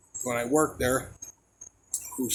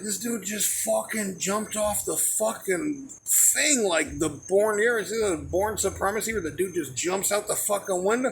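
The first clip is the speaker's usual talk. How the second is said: amazed; 5 semitones higher than usual. Real, not acted. Astonished retelling of the jump.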